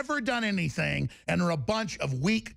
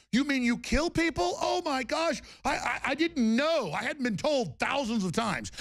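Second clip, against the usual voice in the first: higher, sarcastic mock-innocent whine; sarcastic mock fear; 5 semitones higher than usual. Mocking his threateners in a high sarcastic voice. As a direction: play dumb, dripping with sarcasm.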